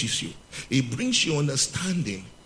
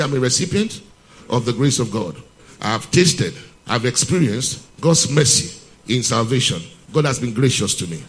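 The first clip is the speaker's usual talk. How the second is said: declaration for the church to repeat; 5 dB louder than usual. Shown as a demonstration. Preacher leading the congregation in a loud confession. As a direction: proclaim it firmly for them to echo.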